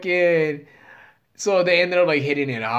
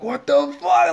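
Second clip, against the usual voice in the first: amazed disbelief; 12 semitones higher, 4 dB louder, slower than usual. Retold or imitated. Watching friend below with girls.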